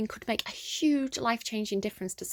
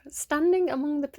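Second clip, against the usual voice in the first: loud restart; 5 semitones higher, 5 dB louder than usual. Real, not acted. Rereading the card opening.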